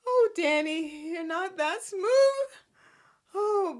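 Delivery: slow, laughing tease. Real, not acted. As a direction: tease him through laughter. Laughing at Danny's line.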